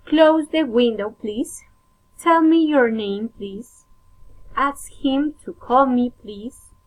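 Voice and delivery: careful model of polite requests; rising request intonation. Shown as a demonstration. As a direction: drop the volume for "please" and let it rise. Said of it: "rising intonation".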